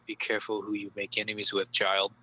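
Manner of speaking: a hint of a booming, ominous cult leader; booming menace. Cultist bears down on the intruder, low measured threat. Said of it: "says to you with that booming voice".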